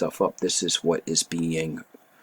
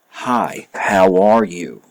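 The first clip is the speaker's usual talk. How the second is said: mock greeting; 8 dB louder, slower than usual. Acting a greeting to the secretary.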